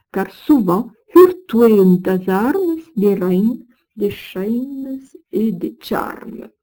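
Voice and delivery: put-on measured Old French verse recitation; verse reading. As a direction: read the old poem with weight and rhythm. Reads Old French verse aloud.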